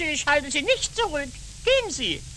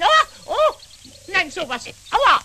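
Schmerzensschrei; 4 semitones higher, 5 dB louder than usual. Acted. Elster stürzt ebenfalls.

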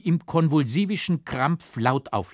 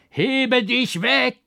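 high, slow, shouted curse; frantic scream; 13 semitones higher, 7 dB louder, much slower than usual. A narrator's reading. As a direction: cry out as if beside yourself. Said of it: "schrie ich außer mir".

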